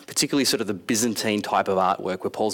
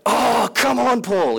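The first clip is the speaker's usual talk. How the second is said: high, loud come on; hammed-up crowd begging; whining plea; 13 semitones higher, 4 dB louder, much slower than usual. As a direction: beg with mock frustration. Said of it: "the Corinthians are like".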